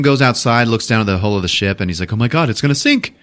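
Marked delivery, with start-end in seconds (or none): 2.1-3.1 higher-pitched mock dismay; alarmed realization. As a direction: voice a dawning alarm. Chilton realizes ship will sink.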